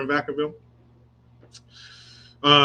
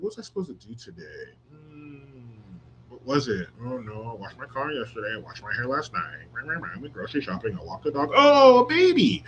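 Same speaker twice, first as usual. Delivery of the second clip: mock ditzy. Mocking forgetful mother.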